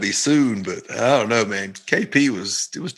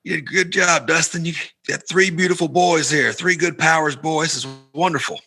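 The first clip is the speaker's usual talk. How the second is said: higher, imitated gushing admirer; gushing praise; 4 semitones higher than usual. Man praising his brother's kids, imitated gushing. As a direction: retell a man gushing over the family.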